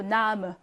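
나무 with a weak schwa ending; unstressed, reduced ending on 나무; weakened vowel. Shown as a demonstration. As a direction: let the final vowel of 나무 go slack. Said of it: "이렇게 약하게 발음합니다".

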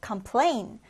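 "complain" with PLAIN stressed; light com, lean on PLAIN in "complain"; stress on second syllable. Shown as a demonstration. Teacher models the word for learners, "complain" stressed on PLAIN. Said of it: "뒤듬절의 강세를 두고".

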